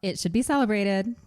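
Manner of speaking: livelier reread, rising end. Shown as a demonstration. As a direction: read it like a person. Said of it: "That sounds less robotic".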